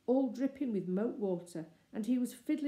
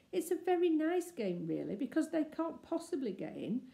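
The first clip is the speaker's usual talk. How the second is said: coaxing; 3 semitones higher than usual. Acted. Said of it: "she said coaxingly".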